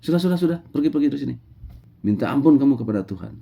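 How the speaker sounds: high, sharp dismissal, hurried at the end; rather harsh. Acted. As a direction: send him away roughly. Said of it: "kata Musa agak kasar". (Musa mengusir dengan agak kasar)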